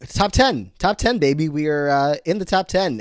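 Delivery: excited radio host hype. Shown as a demonstration. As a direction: pump it up like a radio DJ. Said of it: "Do I sound like a D J?".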